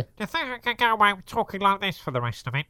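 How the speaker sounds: mock southern accent, nasal blocked voice. Comedian tries a southern voice with a bloody nose. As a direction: talk like something's up your nose, southern. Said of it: "whenever I sound like this".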